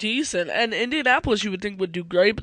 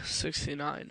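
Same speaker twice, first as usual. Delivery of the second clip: laughing; 3 semitones lower, 9 dB quieter, slower than usual. Real, not acted. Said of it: "it's funny".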